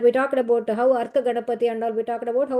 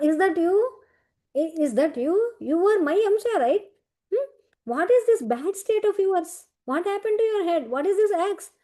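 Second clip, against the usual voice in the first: higher, concerned questioning as the boar god, lightly voiced; a god asking his wounded other half what happened, pitched up; astonished Varaha Swami; 4 semitones higher than usual.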